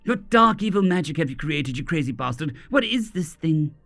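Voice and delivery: growled. Acted. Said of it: "she growled at him".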